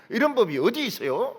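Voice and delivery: mild mock protest in Jeolla dialect; Jeolla dialect quarrel. Preacher mimicking Jeolla churchgoers fighting, Jeolla dialect quarrel. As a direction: lightly imitate a Jeolla arguer objecting. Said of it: "전라도 말로 싸워요".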